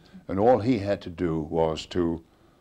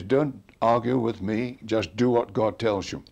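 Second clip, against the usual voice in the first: stern rebuke; 5 semitones higher, 5 dB louder than usual. Retold or imitated. Wigglesworth rebuking the boy.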